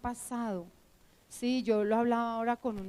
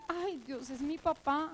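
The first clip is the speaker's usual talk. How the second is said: dawning realisation; 3 semitones higher, 4 dB quieter than usual. Retold or imitated. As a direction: let it dawn on you gently. Retells her moment of realisation.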